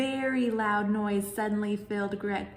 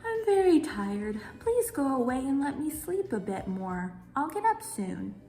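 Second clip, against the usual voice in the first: tired groundhog; 4 semitones higher than usual. Acted.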